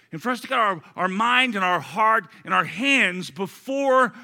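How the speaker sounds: loud, high, slow proclamation; full preaching. Acted. Pastor proclaiming Christ's supreme value, at full force. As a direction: preach it out to the whole church.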